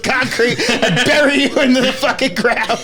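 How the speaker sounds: furious Squidward. Retold or imitated. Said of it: "just be like".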